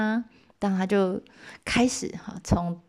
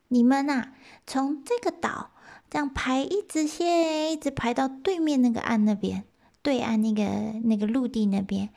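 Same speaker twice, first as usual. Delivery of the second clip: high, small rabbit voice; little rabbit voice; 7 semitones higher than usual. Acted. Rabbit explains to the eighty gods in a high voice. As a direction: speak up as the tiny rabbit. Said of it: "兔子就说啦".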